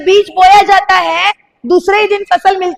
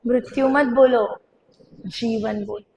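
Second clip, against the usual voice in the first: quiet and lower, calm; soft recap; 4 semitones lower, 7 dB quieter than usual. Shown as a demonstration. Pastor calmly repeats the chant after the shouting, soft. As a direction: say it gently back to yourself. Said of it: "क्या बोला बाजू वाला?".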